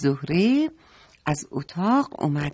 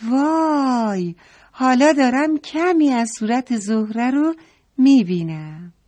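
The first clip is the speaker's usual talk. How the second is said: excited cry; 6 semitones higher than usual. Acted. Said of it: "مریم فریاد زد".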